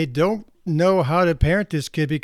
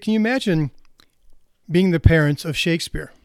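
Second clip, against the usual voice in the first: imitating British drawl; 4 dB louder than usual. Speaker retells Ken Robinson's TED joke in a light British drawl. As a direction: mimic a British speaker's drawl, not full out. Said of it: "in his British drawl".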